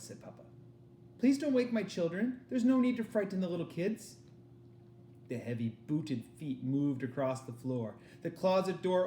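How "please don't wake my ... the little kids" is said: pleading father. Acted.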